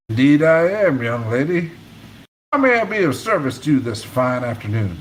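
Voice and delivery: steady read-aloud narration of a novel; audiobook-style reading voice; story narration. A narrator's reading. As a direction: tell the chapter to listeners. Reads chapter aloud.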